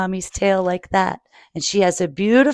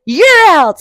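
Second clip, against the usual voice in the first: calling someone out; 9 semitones higher, 8 dB louder than usual. Acted. Mother referee.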